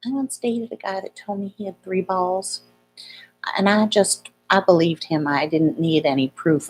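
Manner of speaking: lightly imitated Southern accent; a hint of a Southern storyteller; attempted Southern accent. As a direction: try on a gentle Southern accent. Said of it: "trying to do her Southern accent".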